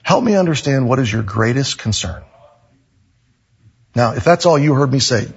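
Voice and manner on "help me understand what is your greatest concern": calm. Retold or imitated. Deacon coaching his pastor on prickly situations, calm. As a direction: ask it calmly and evenly. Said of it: "Just very calmly look at the person".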